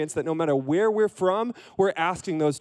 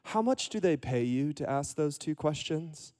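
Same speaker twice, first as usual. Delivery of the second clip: softly spoken question; quiet reply; 6 dB quieter than usual. Acted. Rabbi answering the shouting centurion, quietly. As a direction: ask it softly after the shouting.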